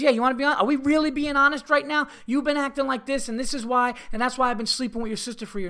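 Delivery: high-pitched, loud imitation of an indignant husband; mock marital blow-up; retold outraged confession. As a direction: act out his outburst, voice way up.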